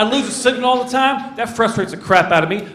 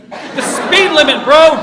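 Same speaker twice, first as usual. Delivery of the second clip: mock yell at driver; 7 semitones higher, slower than usual. Yelling at slow driver ahead.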